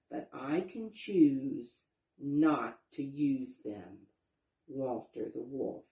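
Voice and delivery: slow, measured sign reading. A narrator's reading. Reading Walter's new sign to the children, slowly. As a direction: read each line out deliberately. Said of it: "the sign read".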